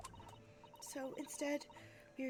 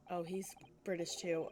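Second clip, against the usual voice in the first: whispered aside; 5 semitones lower than usual. Real, not acted. Aside while reading game dialogue.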